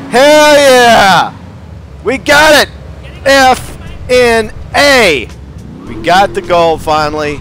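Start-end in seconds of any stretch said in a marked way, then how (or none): 0.1-5.3 loud, high, drawn-out whoop of victory; victorious gamer yell; triumphant cheer. Real, not acted. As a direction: belt it out, spacing out the last letters. Celebrates finally winning gold.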